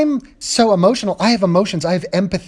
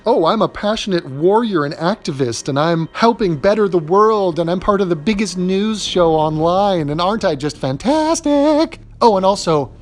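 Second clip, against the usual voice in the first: mocking Anna. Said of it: "you cannot have both of these things".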